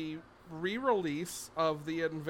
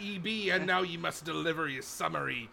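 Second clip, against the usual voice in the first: growling pirate captain; pirate speak; 4 dB louder than usual. Pretend. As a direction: arr like an old sea dog. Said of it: "in pirate speak".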